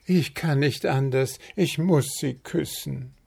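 high, rising, fast excited chirp; eager bird prince. A narrator's reading. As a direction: build up breathless awe for the sleeping princess. Prince Zwitschi speaks.

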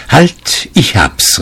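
high-pitched start, then settling; sudden exclamation. A narrator's reading. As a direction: burst out as an idea strikes. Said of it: "rief er endlich".

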